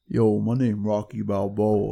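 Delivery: lightly voiced slow Rocky Balboa; a hint of Rocky's mumble, slowed down; slow mock Rocky intro. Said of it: "Mike Tyson versus".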